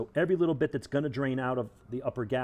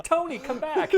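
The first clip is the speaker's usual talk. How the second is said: high, loud cartoon wail; high calling voice; 6 dB louder, slower than usual. Quagmire calling after gerbil.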